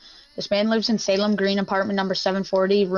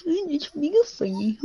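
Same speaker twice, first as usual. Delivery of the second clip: mocking "it's mega funny", pitched higher and sing-song; mocking echo; 6 semitones higher, 3 dB quieter than usual. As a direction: repeat "mega funny" back in a teasing high voice. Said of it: "mocking repeat".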